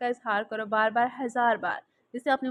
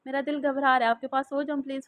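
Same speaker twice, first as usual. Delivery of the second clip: usual speaking voice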